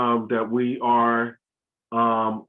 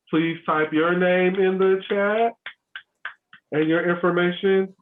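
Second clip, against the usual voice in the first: slow, higher-pitched instruction; slower for translation; 6 semitones higher than usual. Real, not acted. Host asking winners to type names, slower. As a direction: stretch the words out for the translator. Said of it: "make sure I say it slower".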